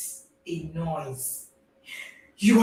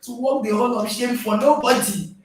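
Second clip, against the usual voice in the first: put-on higher, louder defiant kids voice; defiant children; 5 semitones higher, 3 dB louder than usual. Children refusing to carry their parent's shame, loud and defiant. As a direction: play the kids refusing the blame, tossing it back. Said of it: "they say".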